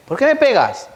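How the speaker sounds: put-on high, loud child crying out why; hurt child's protest. Preacher acts out child protesting a spanking, high and loud. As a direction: voice the child asking why it's hit.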